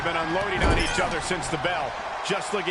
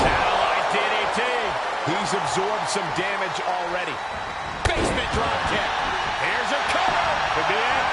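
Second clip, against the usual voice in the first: live play-by-play call; wrestling commentator. Acted. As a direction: call the match as it happens.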